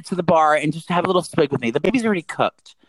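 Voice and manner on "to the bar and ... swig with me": tipsy coaxing. Real, not acted. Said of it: "I'm drunk".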